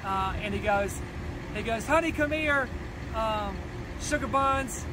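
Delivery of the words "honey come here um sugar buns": lightly imitated exaggerated Southern accent, a bit higher; a hint of an over-the-top Southern drawl, sweet-talking. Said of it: "he does this really exaggerated, uh, Southern accent".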